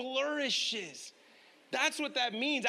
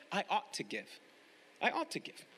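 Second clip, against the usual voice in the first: dutiful giver; 4 semitones lower, 7 dB quieter than usual. Retold or imitated. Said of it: "You know what duty giving is?".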